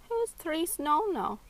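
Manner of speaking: lightly imitated Italian accent, high and slow; copied Italian accent. A narrator's reading. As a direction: copy the Italian accent slowly. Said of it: "copying Saran's accent".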